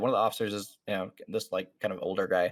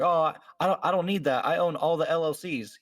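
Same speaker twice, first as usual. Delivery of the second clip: mock squatter; 6 semitones higher, 3 dB louder than usual. Squatter voiced to police.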